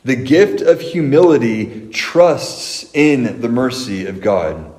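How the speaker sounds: slowed down, each word weighed; slow emphatic repeat. Shown as a demonstration. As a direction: repeat it slowly so it sinks in. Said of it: "That's our big idea that we are gonna take away".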